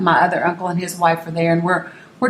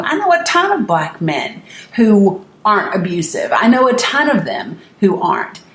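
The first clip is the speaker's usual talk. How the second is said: firm retold rebuttal; kind of pissed; 3 semitones higher than usual. Niece correcting her uncle about abusive men, kind of pissed. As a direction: set him straight, indignant and emphatic. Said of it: "So I was kind of pissed".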